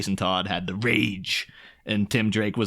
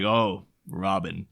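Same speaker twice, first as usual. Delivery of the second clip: slow realization; 3 semitones lower, much slower than usual. Retold or imitated. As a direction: savor the new name, dawning. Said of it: "he's like".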